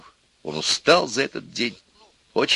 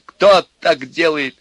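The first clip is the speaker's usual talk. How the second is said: high, slow, loud retort; upset, insistent question; tearful objection; 9 semitones higher, 8 dB louder, slower than usual. A narrator's reading. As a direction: argue back, drawing out each word. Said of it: "возразил Костя, вытирая слёзы".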